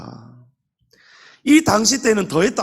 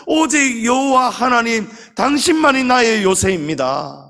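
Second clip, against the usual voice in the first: Hannah's earnest prayer; 3 semitones higher than usual. Retold or imitated. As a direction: cry out to God from the heart. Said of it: "한나가 기도한 것이 바로 이런 기도예요". (하나님께 매달리는 간절한 기도)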